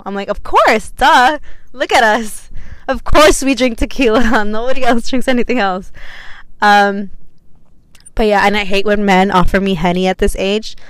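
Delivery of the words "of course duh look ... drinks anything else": higher, louder mock-obvious gush; duh, obviously. Retelling her reply to a fellow tequila girl, gushing mock duh. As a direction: act like it's the most obvious thing in the world.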